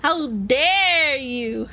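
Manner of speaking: slow, drawn-out offended how dare you; mock outrage. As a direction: play it as hammed-up indignation. Mock outrage at Zoro's spell.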